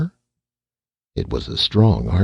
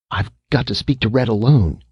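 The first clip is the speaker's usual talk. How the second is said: insisting; 5 semitones higher than usual. Acted. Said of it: "Slim insisted".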